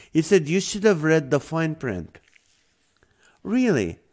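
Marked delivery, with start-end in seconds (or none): 0.5-2.2 higher-pitched imitation Indian accent; lightly mimicked Indian accent, pitched up. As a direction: imitate a call-center agent with an Indian accent. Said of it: "he had an Indian accent".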